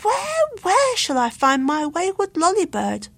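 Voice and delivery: sorrowful cry. A narrator's reading. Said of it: "cried Luke sorrowfully".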